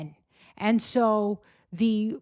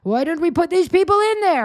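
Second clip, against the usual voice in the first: mock grumbling official; 3 semitones higher, 6 dB louder than usual. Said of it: "He's like".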